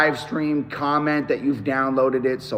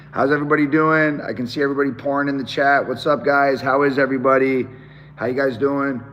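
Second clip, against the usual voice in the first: lost voice from screaming, hoarse throughout. Real, not acted. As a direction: speak through a shredded, hoarse throat. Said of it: "my voice is absolutely butchered right now".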